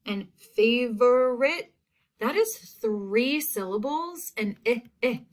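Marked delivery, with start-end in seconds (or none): 0.6-1.7 "favorite" sounded out, punching each syllable; short I sound. Shown as a demonstration. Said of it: "that's also short". 4.6-5.2 "eh, eh" as two isolated short vowels; short I sound. Shown as a demonstration. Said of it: "that's also short".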